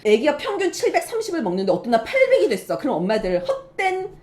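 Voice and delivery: ordinary delivery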